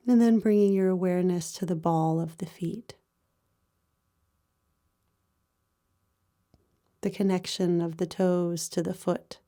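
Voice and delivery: calm, even meditation voice with long pauses; guided body scan meditation. Real, not acted. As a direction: guide them gently through the body, pausing between phrases.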